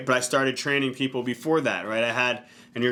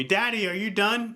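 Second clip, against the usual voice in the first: light imitation of a child, pitched up; daughter calling out; 7 semitones higher than usual. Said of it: "she's gonna scream to me".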